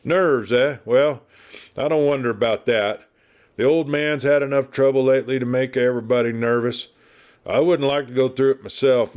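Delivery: put-on a chatty old westerner spinning yarns; garrulous old marshal. Garrulous marshal rambling at the doctor, lightly voiced.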